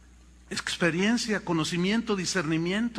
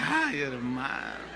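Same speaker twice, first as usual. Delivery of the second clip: mock exasperated sigh; 8 semitones lower, 4 dB quieter, slower than usual. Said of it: "se pusieron hasta rojos de la risa".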